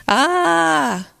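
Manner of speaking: long, high "ah" cry; high "ah" repeated from the mountain; echoed scream. A narrator's reading. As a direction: echo back a drawn-out, contained scream. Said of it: "he hears the voice repeating".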